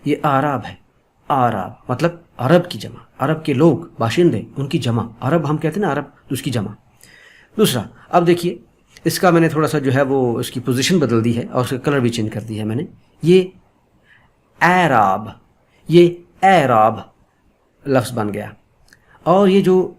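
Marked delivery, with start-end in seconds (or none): 0.2-1.7 آراب begun with an open 'aa' sound; first vowel of آراب wide open, 'aa'; open 'a' pronunciation. Shown as a demonstration. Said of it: "جو کہ اَ کی آواز دیتی ہے". 14.6-17.0 اعراب begun with an open 'ae', as in 'cat'; majhool fatha pronunciation. Shown as a demonstration. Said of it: "اس کی آواز ہوتی ہے اے کی".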